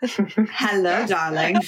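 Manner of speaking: low, put-on English accent. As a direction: greet them in a playful mock English accent. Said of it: "Can I have the English accent".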